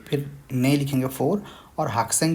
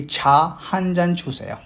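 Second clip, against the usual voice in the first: slow Korean model; 5 semitones higher, slower than usual. Shown as a demonstration. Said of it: "हम जान use करेंगे कि".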